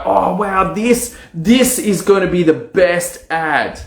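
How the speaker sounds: high, amazed gush over the ad; delighted wow. Retold or imitated. Entrepreneur gushing over his new ad, high and amazed. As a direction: act dazzled by your own work.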